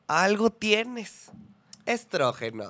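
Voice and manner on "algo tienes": slow, higher "Algo tienes"; a lightly hammed-up, slow, higher "Algo tienes"; slow seductive repeat.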